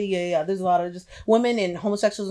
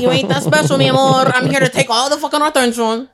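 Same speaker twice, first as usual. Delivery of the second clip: hyped trash talk; 5 semitones higher, 6 dB louder than usual. Pretend.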